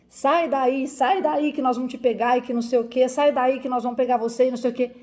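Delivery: angry crowd shouting at the locked car; retold mob yell. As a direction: yell threats at her through the window. Mob shouting threats at her.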